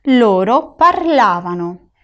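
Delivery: "parlavano" slow, LA carrying the stress; teacher's slow model, parLAvano. Shown as a demonstration. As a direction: lean on the LA of "parlavano". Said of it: "La sílaba tónica de parlavano".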